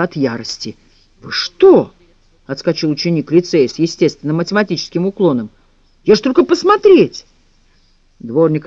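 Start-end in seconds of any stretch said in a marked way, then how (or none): 1.2-1.9 startled. A narrator's reading. Boy dodging broom attack. 6.0-7.2 frightened protest. A narrator's reading. Boy protesting.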